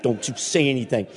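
put-on low, hushed warning to giggling kids. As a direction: quietly warn them to keep still. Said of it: "So I'm looking at 'em like".

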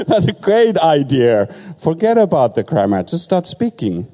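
thrilled by advice to forget grammar; delighted laugh. Retold or imitated. Preacher delighted by the friend's advice, laughing and high.

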